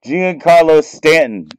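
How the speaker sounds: thrilled gasp of a name; excited disbelief. Real, not acted. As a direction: shout the name like you can't believe the pull. Repeats the star name, thrilled.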